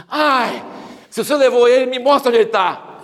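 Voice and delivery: mild imitation of a tearful Mary; lightly voiced pleading Mary. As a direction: beg the gardener gently. Mary Magdalene pleads with gardener.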